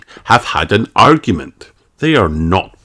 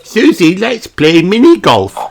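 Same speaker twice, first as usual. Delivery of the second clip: high, louder eager piglet voice; eager invite; 11 semitones higher, 5 dB louder than usual. A narrator's reading. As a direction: bounce in with the idea. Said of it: "says Peppa".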